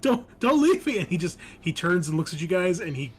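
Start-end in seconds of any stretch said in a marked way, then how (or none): 0.0-1.0 much higher, louder panicked wail; desperate plea. Acted. Abandoned captive wails after his fleeing comrade. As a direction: shriek after the ones running off. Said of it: "he's like".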